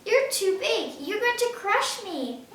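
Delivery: fed-up Otto, voice climbing; Otto crying out, exasperated. A narrator's reading. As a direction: blurt it out at the end of his rope. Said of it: "cried Otto".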